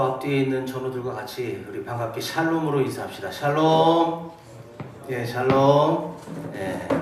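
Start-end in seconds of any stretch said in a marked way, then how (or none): 3.3-4.3 loud, long-drawn greeting, pitched up; called-out greeting. Real, not acted. Pastor leading congregation in a shalom greeting, calling out loud. 5.2-6.2 loud, drawn-out reply greeting; called-out greeting. Real, not acted. Pastor returning the congregation's greeting, calling out long and loud.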